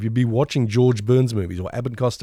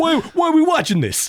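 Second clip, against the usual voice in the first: put-on fed-up, tough, very high New York accent. Imitating a kid who wanted to skip the credits: imitating a New York Teamster. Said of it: "sounds like a Teamster from New York".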